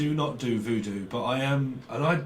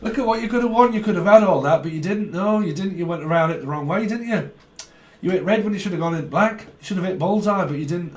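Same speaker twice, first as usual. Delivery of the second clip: quick, raised game-show host impression; Jim Bowen; 4 semitones higher, 4 dB louder than usual. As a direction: mockingly rub in the lost prize. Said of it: "Like Jim Bowen".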